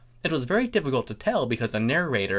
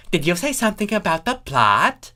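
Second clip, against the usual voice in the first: Thorax voice; 7 semitones higher, 4 dB louder than usual. Acted.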